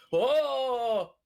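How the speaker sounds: loud, high, drawn-out whoa; mock amazement. Player faking awe to draw kobolds' attention away, mock amazed. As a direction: put on a big showy gasp of wonder. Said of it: "but I'm like".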